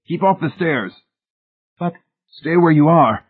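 snarled warning. A narrator's reading. Trapped husband ordering his wife to stay above, snarling. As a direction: order them back, pitched high.

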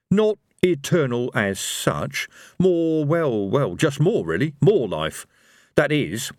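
lightly voiced, slightly high hedging character; halting, feeling for the right word; Rincewind, hedging. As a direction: hedge it slowly, a touch unsure.

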